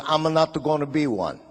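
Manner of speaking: mock Italian immigrant dad, refusing; broken English with an Italian accent; lightly voiced Italian father. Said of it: "And he goes".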